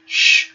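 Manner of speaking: "Sh" as one long hushing noise, no vowel; isolated consonant sound. Shown as a demonstration. Teacher showing a letter's sound, long voiceless "Sh". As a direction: hold a sustained "Sh". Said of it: "O Shin tem som de Sh".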